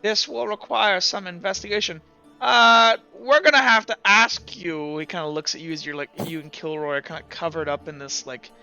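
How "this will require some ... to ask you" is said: lightly voiced official, a bit higher; measured in-character doctor, politely hesitant; investigating plague doctor. Doctor telling adventurers they need investigating, lightly voiced official.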